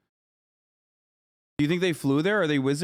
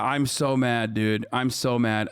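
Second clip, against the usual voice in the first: flatly sarcastic "I'm so mad"; deadpan mock anger; 3 semitones lower, slower than usual. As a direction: say it like you obviously aren't. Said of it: "I'm not mad".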